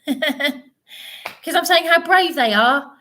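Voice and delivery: high, slow, loud laughing repeat; laughing incredulously. Real, not acted. Repeating herself to her attackers, laughing in disbelief.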